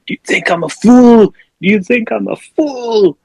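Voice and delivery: high-pitched, hammed-up indignation; mock outraged threat. Cousin holding a gun to Nick Cage's head, mock outrage.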